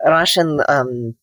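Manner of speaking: Russian accent from the back of the mouth; Russian-accented English, held back. Shown as a demonstration. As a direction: demonstrate a guarded Russian accent with dropped articles. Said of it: "they tend to talk more in back of the mouth".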